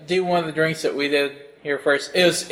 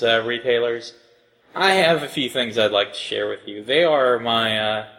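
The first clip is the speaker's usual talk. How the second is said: John Henry Eden. Acted. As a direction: address them like an ominous leader. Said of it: "You are totally sounding like John Henry Eden right now".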